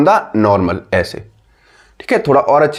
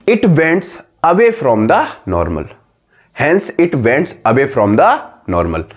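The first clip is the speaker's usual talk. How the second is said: very slow, spaced dictation; 3 semitones lower, much slower than usual. Shown as a demonstration. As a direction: dictate it so everyone keeps up. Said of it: "लिखो जल्दी copy में लिखो".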